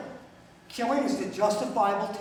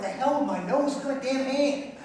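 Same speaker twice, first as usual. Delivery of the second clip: louder, higher mock protest at the hurt hand; retold outburst; 6 semitones higher, 4 dB louder than usual. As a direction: blurt it out like a kid in pain, half-acted. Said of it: "I'm like".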